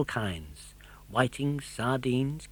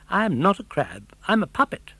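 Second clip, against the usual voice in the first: annoyed puppet; 6 semitones higher than usual. A narrator's reading. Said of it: "Pinocchio was quite annoyed".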